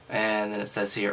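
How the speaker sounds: normal talking voice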